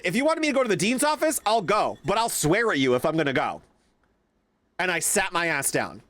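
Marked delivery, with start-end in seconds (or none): 0.0-3.6 defiant retort. Retold or imitated. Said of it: "I said".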